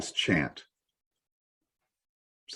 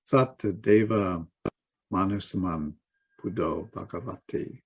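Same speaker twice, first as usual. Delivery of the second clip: quiet, measured recital of a Pali chant; soft Pali recitation; 4 dB quieter than usual. Acted. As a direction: recite the Pali softly, phrase by phrase.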